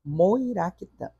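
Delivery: Moiraquitã said slowly and clearly; teacher spelling out a word for students, slow; slow demo. Shown as a demonstration. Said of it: "Pode olhar".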